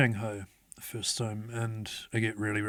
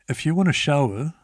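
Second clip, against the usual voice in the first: put-on mildly demanding old lady; 4 semitones higher, 6 dB louder than usual. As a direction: imitate a pushy old lady, higher and louder. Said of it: "coming across very hard to understand and very demanding".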